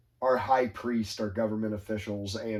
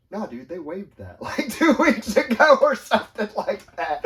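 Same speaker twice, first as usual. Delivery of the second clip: laughing; 9 semitones higher, 10 dB louder than usual. Retold or imitated. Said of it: "the guy that's first to talk about regretting it goes".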